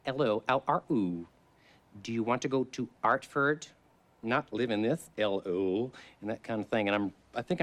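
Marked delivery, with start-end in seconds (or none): 0.0-5.9 amateur Cockney, dropped H's; a hammed-up Cockney, a bit higher; practising a shaky Cockney accent for an audition. Shown as a demonstration. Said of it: "the whole Cockney thing of".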